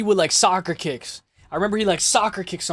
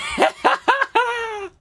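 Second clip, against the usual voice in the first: real laughing fit. Real, not acted. Streamer cracking up at his own remark, high laughter. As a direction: crack up, high-pitched and helpless.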